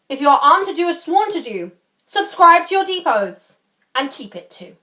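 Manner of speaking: formal Shakespearean oratory with lively pitch swings; a touch of regal proclamation; lightly voiced declaiming King. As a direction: address your sworn lords like a king, firm and measured. Playing the King opening the scene.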